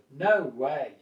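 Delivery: firm, controlled disagreement; slightly forceful. Shown as a demonstration. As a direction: put some force in it, not too much. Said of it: "slightly more forceful with your tone of voice".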